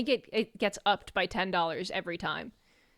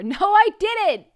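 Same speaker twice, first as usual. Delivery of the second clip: laughing protest; 11 semitones higher, 10 dB louder, slower than usual. Real, not acted. Accused of insulting Boo.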